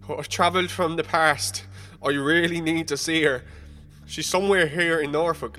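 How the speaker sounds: sounding half insane, beg him; frantic pleading. Retold or imitated. Man begging the bartender to find Elsie, frantic.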